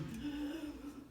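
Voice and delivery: high mock wail; imitated wailing cry. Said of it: "like, crying, wailing".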